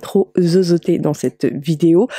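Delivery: slight lisp on the s sounds. Real, not acted. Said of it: "vous ne m'entendrez pas trop zozoter".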